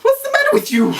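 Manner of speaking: high, loud, incredulous yelp; exasperated outburst. Retold or imitated. Thinking it at the examiner, a loud high outburst. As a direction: blurt it out in disbelief. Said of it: "in my head".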